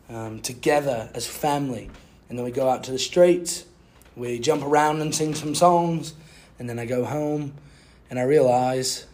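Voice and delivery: put-on British accent. Podcaster recaps his week as a British man, mock British accent. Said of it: "I'll speak in a British accent".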